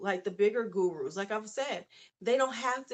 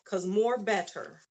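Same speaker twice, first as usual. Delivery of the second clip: savoring the wrong phrase on purpose; playful mock grammar; 2 semitones lower than usual. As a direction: lean into the slip for laughs. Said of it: "y'all gonna help me out".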